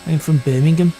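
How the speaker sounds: light nasal Brummie accent. Shown as a demonstration. Driver testing a Brummie accent on himself, nasal. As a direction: try on a bit of Brummie. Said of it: "Now we're talking with a bit of a Brummie accent".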